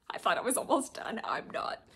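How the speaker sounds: breathy whispered aside, amused at herself. Real, not acted. Realizing the haul isn't over, whispering to herself. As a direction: let it drop to a secret whisper. Realizes she has more books.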